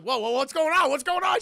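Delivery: high, loud imitated alarm; acted panicky questioning; panicked shout. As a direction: back away yelling in alarm. Date panics at monstrous girl.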